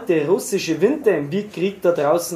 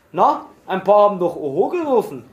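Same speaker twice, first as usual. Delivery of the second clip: irritated; 3 semitones higher than usual. Acted. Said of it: "sagte gereizt".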